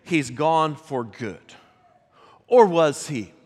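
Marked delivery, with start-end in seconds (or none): 0.0-1.5 slow, low and soft, hopeless; despairing disciples. Retold or imitated. Disciples mourning Jesus at the tomb, slow and hushed. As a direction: let it sink, slow and hushed. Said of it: "they're thinking".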